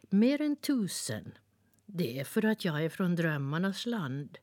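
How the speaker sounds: proud little songbird boasting kindly; cheerful nightingale. Acted. Nightingale speaks.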